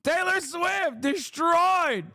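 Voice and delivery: high, slow mock shout of glee; squealing triumph, way up high and stretched; mock gleeful cheer. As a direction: cheer it out like your team just won. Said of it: "She's like".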